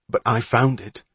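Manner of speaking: mildly smug comeback, stress on "found"; smug retort. Acted. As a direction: answer back with a smirk. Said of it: "looked back with a smirk".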